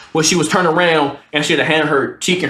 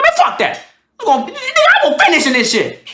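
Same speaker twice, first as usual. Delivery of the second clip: hammed-up squeal, straining to finish; mock strained yell; faster than usual. Comic telling himself mid-sex, high strained yell.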